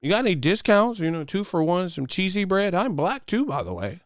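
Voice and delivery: high, put-on caller voice; mock poser customer. Poser haggling with the pizza place, high mocking voice. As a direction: ask in a high fake voice, dropping at the end. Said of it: "When the last time you ordered a pizza".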